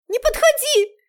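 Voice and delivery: high, loud frightened cry; panicked high shriek; terrified scream. Acted. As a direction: scream him away in panic. Cornered girl on balcony.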